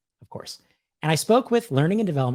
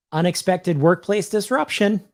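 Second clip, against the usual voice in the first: higher, announced punchline; joke teller's punchline; 5 semitones higher, 4 dB louder than usual. Pretend. Playing the teller for viewers, higher and announcing. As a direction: deliver the setup name grandly. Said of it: "I'll just do both sides of the joke".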